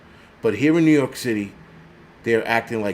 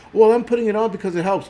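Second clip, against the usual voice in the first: mock self-righteous; 8 semitones higher, faster than usual. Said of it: "you should see people like".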